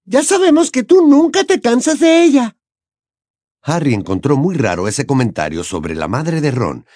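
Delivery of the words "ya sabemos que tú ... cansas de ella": sarcastic jab. Acted. Ginny snapping at Ron.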